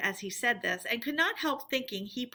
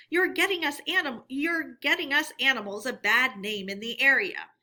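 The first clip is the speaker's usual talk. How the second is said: scolding badger; 4 semitones higher, 3 dB louder than usual. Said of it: "the badger explained".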